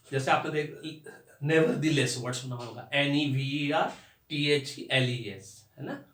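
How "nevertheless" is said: nevertheless split into three parts, slowly; broken into parts. Shown as a demonstration. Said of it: "उसको तोड़ के बोला जाता है".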